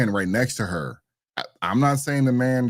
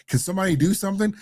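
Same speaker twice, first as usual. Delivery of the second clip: higher and fast, mimicking a helpless plea; mocking the woman; 10 semitones higher, faster than usual. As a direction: squeak it out like she's begging for rescue. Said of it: "that one was like".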